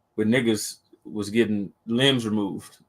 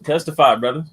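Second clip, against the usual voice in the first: preacher call-out; 4 semitones higher, 4 dB louder, faster than usual. Pretend. Preacher calling on brother.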